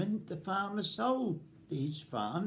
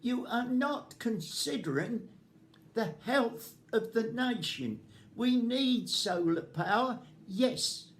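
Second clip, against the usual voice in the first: annoyed; 3 semitones higher than usual. Real, not acted. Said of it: "I'm very annoyed".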